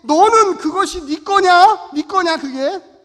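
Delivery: loud, slow divine question ringing inside him; voice of God. Retold or imitated. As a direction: proclaim it slowly like a voice from heaven. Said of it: "하나님의 음성이".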